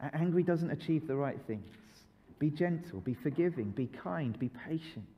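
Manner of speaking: soft, calm, fading gentler; God gently calming an angry child; gentle voice of God. Acted. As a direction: reassure them softly. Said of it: "God calls to us and says".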